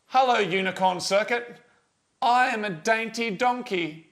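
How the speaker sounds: slow, deliberate dictation; model sentence. Shown as a demonstration. Host showing listeners the contest sentence, slowly and deliberately. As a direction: set out the sentence for others to copy. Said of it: "hear you guys say the sentence".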